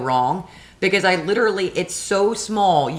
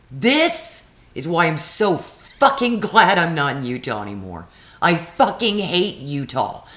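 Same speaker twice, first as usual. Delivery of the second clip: retold cursing. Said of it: "I'm like".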